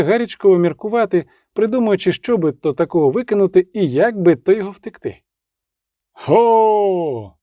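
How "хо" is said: hailing shout from ahead; calling out. A narrator's reading. A rider up ahead hails them with a shout. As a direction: call out into the dark. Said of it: "закричав хтось попереду".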